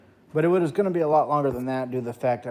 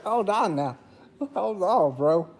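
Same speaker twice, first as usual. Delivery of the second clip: alarmed; 6 semitones higher, slower than usual. Retold or imitated. Refusing the therapist.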